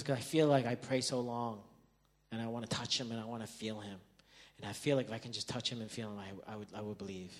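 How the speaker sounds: soft, subdued imitation of a son; retold tearful confession. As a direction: quietly confide it, close to tears. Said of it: "I saw tears in his eyes".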